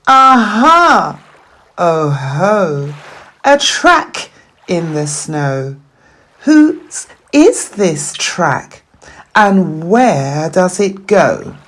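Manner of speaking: a little explorer spotting clues; excited child. Acted. Gruffalo's child alone in the wood, excited discovery.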